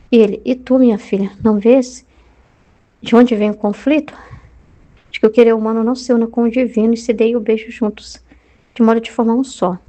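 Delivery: measured, even reading of a mystic's text; devotional reading. Acted. Preacher reading a mystic's dialogue with Jesus, even devotional reading. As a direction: read the sacred text steadily.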